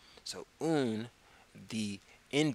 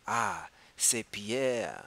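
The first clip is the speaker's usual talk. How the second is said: "Ah, c'est Pierre" said slowly; slow model phrase; much slower than usual. Shown as a demonstration. Teacher modelling a phrase for students, slow. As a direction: say it slowly with a light ah. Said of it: "teacher model phrase".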